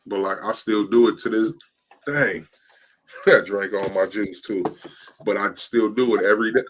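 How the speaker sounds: hiccupping between words; speaking through hiccups. Real, not acted. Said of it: "Mm, hiccups".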